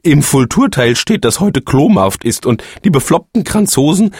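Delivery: laut ansetzendes, langsames Ablenken; Ausweichen. A narrator's reading. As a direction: lenk hastig vom Thema ab. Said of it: "versuchte er das Thema zu wechseln". (der Phönix wechselt verlegen das Thema)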